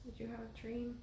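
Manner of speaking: slow soothing whisper. Real, not acted. Soothing woken child.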